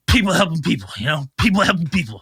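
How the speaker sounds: a hint of a tipsy club slogan; lightly voiced drunk man. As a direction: repeat the motto like a drunk, lightly. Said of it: "he's just like".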